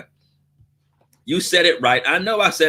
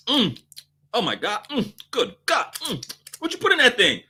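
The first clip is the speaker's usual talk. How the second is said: high, hushed mmm over the food; savoring customer; 7 semitones higher, 3 dB quieter than usual. Acted. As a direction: moan over the taste, then ask.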